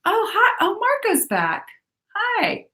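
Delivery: light up at a friend arriving; excited greeting. Real, not acted. Host greeting Marco rejoining the stream, delighted.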